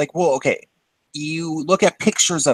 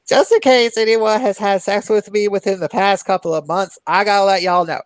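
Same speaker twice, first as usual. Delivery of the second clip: announcing from the bar; 5 semitones higher than usual. Retold or imitated. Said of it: "he was like".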